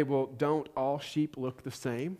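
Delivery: slow, soft, puzzled question as an outsider; naive non-shepherd. Retold or imitated. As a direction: play the clueless city person asking. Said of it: "I would probably say".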